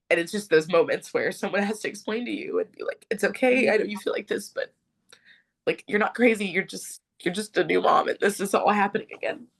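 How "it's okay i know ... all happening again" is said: tag. Retold or imitated. Retells nurse's reassurance, getting emotional.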